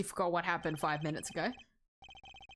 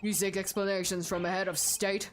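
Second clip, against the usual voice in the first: mock-stern president. President scolds the prosecutor.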